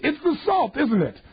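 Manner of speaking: sarcastic. Retold or imitated. Sarcastic reveal of salt.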